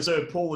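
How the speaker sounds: Sir Paul, second syllable said like the name Paul; surname said as two words, Sir Paul; common mispronunciation. Shown as a demonstration. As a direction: show the variant Sir Paul. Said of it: "a lot of people go to".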